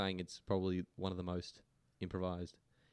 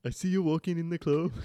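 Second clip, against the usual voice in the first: hesitant attempt at Irish, high; Irish accent; 8 semitones higher, 4 dB louder than usual. Shown as a demonstration. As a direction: read lyrics in a shaky-attempt Irish accent. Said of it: "read this in your best Irish accent".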